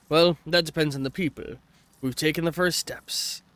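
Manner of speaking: badly faked Australian accent; amateur Aussie accent, reading aloud; attempted Australian accent. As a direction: read the message as a would-be Australian. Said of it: "I cannot do an Australian accent".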